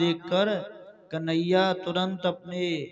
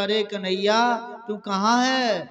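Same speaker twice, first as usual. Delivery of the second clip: calling out; 3 semitones higher than usual. Acted. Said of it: "फिर मैया ने पुकारा".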